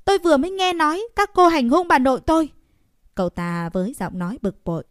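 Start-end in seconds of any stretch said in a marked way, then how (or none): 0.1-2.5 put-on high, loud and fast boy's shout; a boy yelling an accusation. A narrator's reading. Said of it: "trực tiếp lớn tiếng nói".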